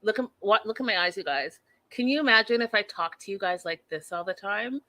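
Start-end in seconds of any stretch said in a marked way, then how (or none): 0.0-1.6 crazy eyes demo. Shown as a demonstration. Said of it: "her full on, like".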